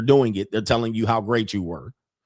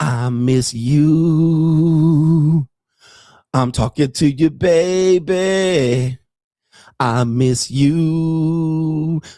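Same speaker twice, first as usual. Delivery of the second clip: higher, louder mock woman's voice; 5 semitones higher, 4 dB louder than usual. Acting out a woman texting a man from another man's bed: imitating a woman texting. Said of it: "talking about".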